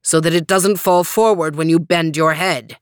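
knight voice. Acted. Green Knight.

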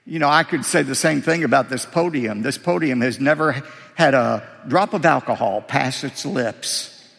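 quick, deadpan joke, rattling off the list fast; dry joking. Real, not acted. Preacher joking to the congregation about a podium, quick and deadpan. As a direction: tease the crowd with a brisk straight face.

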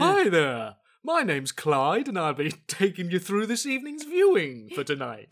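a light, cheesy announcer voice; TV continuity announcer. Retold or imitated. Mocking presenters with a personality, lightly voiced announcer. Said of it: "I'll do an impression of one".

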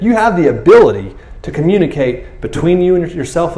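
Jesus telling disciples forgiveness is their job, stern and insistent; firm stern teaching. Acted. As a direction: drive each rule home hard. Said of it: "he's being really stern".

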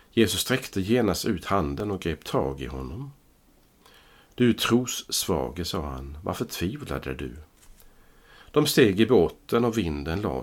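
measured, formal Bible reading voice; scripture reading. Acted. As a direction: read the Gospel aloud to the congregation. Reads the Gospel text aloud.

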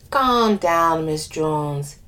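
put-on lilting West Indian accent. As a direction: speak with a light West Indian lilt. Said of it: "I do an accent for one of the characters".

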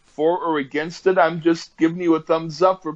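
tipsy, laughing, tripping over "I". Real, not acted. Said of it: "I'm so drunk right now".

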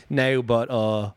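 lightly mocked Boston filler phrase; imitated Boston accent. Comic imitating how Bostonians start sentences, Boston accent. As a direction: slip into a hint of Boston accent. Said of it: "everybody from Boston, when they say anything".

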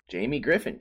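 ordinary talk, nothing marked

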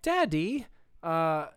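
lilting, questioning little piglet; Peppa Pig. Retold or imitated. Retelling a cartoon scene to a co-host, piglet voice. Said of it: "and Peppa goes".

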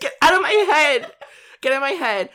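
loud, high, laughing exclamation; thrilled disbelief. Real, not acted. Friend hears her own guess said, thrilled disbelief. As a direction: burst out in delighted shock.

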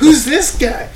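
mock announcer. Mock announcer joke, high and loud.

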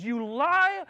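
high, loud yell of betrayal; furious shout. Retold or imitated. Dominique confronting him at the dance, loud furious shout. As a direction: scream it at him across the dance floor.

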